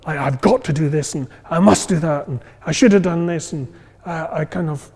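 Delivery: anxious musts. Retold or imitated. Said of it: "you're causing yourself anxiety".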